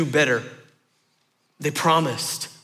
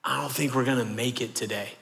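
softer, apologetic dad letting his son down; 3 semitones lower, 7 dB quieter than usual. Retold or imitated. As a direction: gently break the bad news to your boy.

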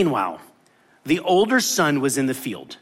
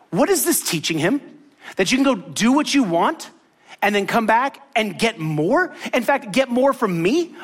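put-on higher, pressing protest of the older brother; indignant brother; 6 semitones higher than usual. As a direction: complain with rising outrage. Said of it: "He's like".

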